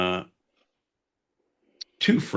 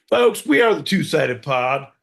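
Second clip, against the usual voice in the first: announcer shout; 8 semitones higher, 6 dB louder than usual. Real, not acted. Show sign-off announcement.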